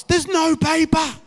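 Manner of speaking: high, slow call for help; mock plaintive shout. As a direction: call it through a door, stretching each word. Acts calling out from the toilet.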